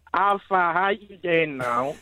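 slow imitation of an Aussie accent; partner's Aussie accent, imitated slowly. Shown as a demonstration. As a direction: drag out an attempted Australian greeting. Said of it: "Maddie wanted it in your Aussie accent".

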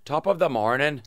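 easy Irish brogue; Irish greeting for someone to copy; Irish accent. Shown as a demonstration. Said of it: "Like, with my accent".

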